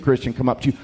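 whisper. Pretend. Preacher whispers to the congregation about secret believers. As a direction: lean in and whisper it quickly.

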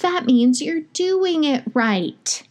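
high, slow, soothing South African lilt; South African accent. Retold or imitated. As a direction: imitate a reassuring South African midwife. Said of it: "she has such a great accent".

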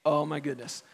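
mock exasperation, dropped low and quiet; quietly appalled, as if facepalming; exasperated facepalm. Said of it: "I'm sure Jesus was just like".

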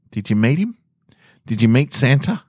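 put-on eager high questions to a sleepy child; excited mum. Mum asks her waking child, eager and high. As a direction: mum bursting to ask about Santa.

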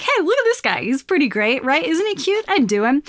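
hammed-up admiration, jumping high in pitch; playfully ridiculous. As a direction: show off the broccoli mascot with mock delight. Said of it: "make this a little bit ridiculous".

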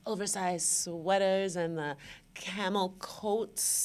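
lightly put-on glamorous indulgence, stretched at the end; bougie body-roll voice. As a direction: savour it as if doing a body roll. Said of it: "you can hear it in my voice".

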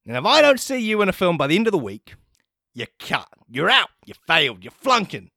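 high, stern ultimatum voice; angry principal. Retold or imitated. Principal giving Waffles an ultimatum, high and stern. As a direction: threaten the student with expulsion. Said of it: "He's like".

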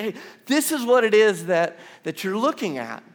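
a lively guide announcing the view; eager tour guide. Pretend. Pastor voicing a tour guide to the congregation, eager.

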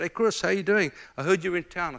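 friendly phone greeting. Retold or imitated.

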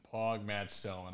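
soft repeat. Real, not acted. Host quietly repeating the cheer to himself. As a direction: mutter "Pog Matt Stillman" again to himself.

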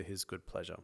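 measured, steady reading of scripture. Real, not acted. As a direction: read the passage aloud to the listeners. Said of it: "could you read for us in your beautiful Aussie accent".

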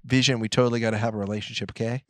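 put-on fast, casual Los Angeles accent; mock a quick, offhand LA girl; Scarlet Witch. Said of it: "she's clearly from Los Angeles".

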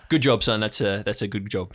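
lightly voiced patronising father; a hint of a back-slapping dad; middle-aged dad praise. GM imitates a dad congratulating a youngster, lightly voiced. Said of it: "the classic middle-aged man".

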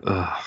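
mock disgusted groan; a mild imitated groan. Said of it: "he just groaned on me".

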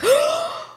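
very high, rising gasp; shocked mock gasp. Crowd watching Paul hand tokens to Chani, shocked mock gasp. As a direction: gasp like a scandal just broke.

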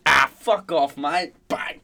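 mock yell. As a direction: act out the surfer cursing at the shark. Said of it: "screaming the whole way".

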